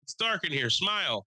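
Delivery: high, sing-song host voice calling out; old lady host. Retold or imitated. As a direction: call him up like an ancient emcee. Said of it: "She goes".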